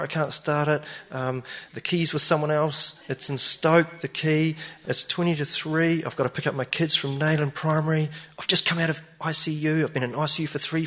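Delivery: a hint of a hard-luck plea; sob story. Stranger pleads his hard luck to the owner, lightly voiced. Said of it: "he's like".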